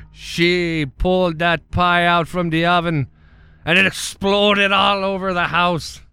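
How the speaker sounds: hint of an Amish man telling a grim tale; lightly played Amish farmer; Amish farmer character. The speaker tells Amish story.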